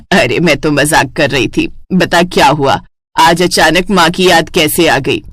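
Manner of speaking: lightly voiced mother, teasing.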